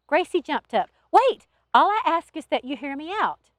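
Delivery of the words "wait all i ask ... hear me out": loud, high call to stop, then pleading; raised, urgent appeal; urgent plea. A narrator's reading. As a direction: burst out to stop someone leaving. Gracie jumps up to stop her.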